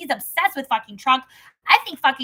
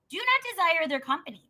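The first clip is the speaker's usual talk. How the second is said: scripture reading. Acted. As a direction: read it out measured and steady. Reads Proverbs chapter aloud.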